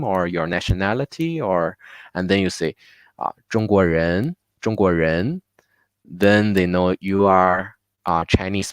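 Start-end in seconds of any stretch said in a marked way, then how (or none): 3.5-5.4 中国人 joined as one unit, no inner pause; one-concept grouping. Shown as a demonstration. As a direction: run 中国人 together, rising on 人. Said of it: "this will be a good split".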